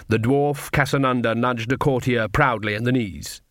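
usual speaking voice

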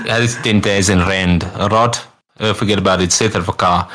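mock South African accent, lightly voiced; a hint of South African English. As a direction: roll the consonants like a South African. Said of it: "South African rolls over the D's".

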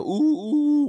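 very high, loud cooing; cooing at puppy. Retold or imitated. Family cooing over the new pup, high and loud. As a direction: coo at a puppy like baby talk.

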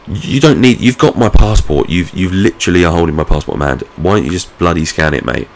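mildly heated complaint, acted out; mock exasperated protest. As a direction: protest as if arguing with the official, easing off. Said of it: "I didn't say that to him".

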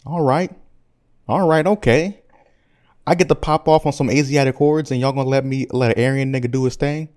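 casual hip-hop Hitler. Acted. Hitler answering Chamberlain's invasion offer, casual swagger. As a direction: play the dictator as a rapper weighing an offer.

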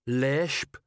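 slow-witted troll sergeant. Acted. Troll sergeant asking his commander, dim troll voice.

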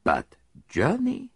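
lightly voiced Belgian detective; a hint of a fussy foreign sleuth; Poirot. Detective tells his friend where they will stay, lightly voiced.

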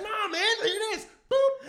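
high, loud eager protest; insist, then pop the button; eager reply. Retold or imitated. Showing Sway his phone, high and eager. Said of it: "I was like".

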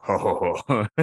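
low, soft ho ho ho; mock pig chuckle; low mock laugh. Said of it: "the pig is laughing".

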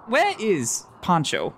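cowboy asking about a friend. Acted. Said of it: "doing the cowboy voice".

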